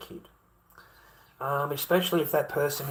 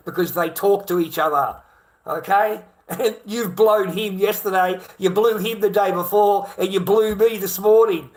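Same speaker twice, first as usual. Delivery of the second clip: nail her with each date; accusing; 5 semitones higher, 8 dB louder than usual. Retold or imitated. Confronting girl on Love Island.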